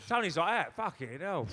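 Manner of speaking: laughing loud through the words. Real, not acted. Comic recalling Tony on live TV, laughing loudly. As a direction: crack up as you say it.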